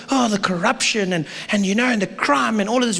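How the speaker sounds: mock whiny grumbling; complaining. Citizens griping about the country, mock complaining. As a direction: lightly imitate a serial complainer. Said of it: "We love to complain".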